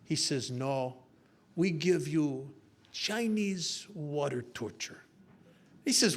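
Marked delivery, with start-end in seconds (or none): 0.5-5.0 slow, deliberate villain pronouncement; measured interrogator voice, drawn out; Doctor Chan. Acted. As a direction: announce the torture slowly, in character. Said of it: "this little Doctor Chan comes in".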